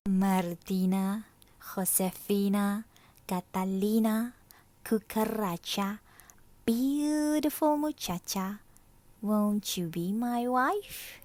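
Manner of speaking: court her grandly; lizard's proposal. Acted.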